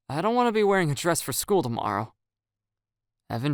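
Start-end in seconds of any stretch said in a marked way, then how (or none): 0.1-2.1 anxious. Acted. Nervous joking plea.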